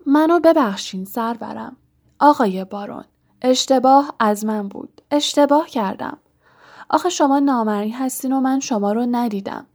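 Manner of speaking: fawning, apologetic plea; butter up a feared superior; oily flattery. Acted. Poltergeist begging the Baron's pardon, oily and servile. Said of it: "با چرب زبانی گفت".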